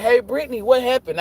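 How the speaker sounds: high child's voice, lightly mocked; curious kid. Stepkid asking what happened, imitated in high pestering voice. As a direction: imitate a kid butting in with a question. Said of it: "She was like".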